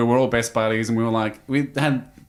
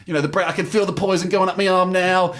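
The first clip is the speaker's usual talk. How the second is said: imitating the Venom Hunter; 8 semitones higher than usual. Telling cohost about the ex-soldier, hammed-up tough-guy impression. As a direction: ham up a stoic commando gritting through pain. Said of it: "grits through it and goes".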